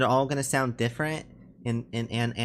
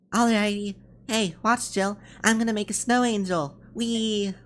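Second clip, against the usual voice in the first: high, gleeful playful voice; cheerful character; 9 semitones higher, slower than usual. Acted. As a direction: squeal along like someone playing in the snow. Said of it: "It must be nice to be so cheerful".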